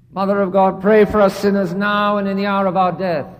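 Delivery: recited prayer. Acted. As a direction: pray it out steadily, as a plea. A prayer in the sermon.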